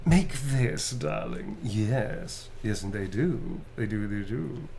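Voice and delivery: lightly arch, drawn-out character voice; a touch of theatrical purr; Astarian. Shown as a demonstration. Showing what three friends combined make, lightly arch. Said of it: "Those three combined make".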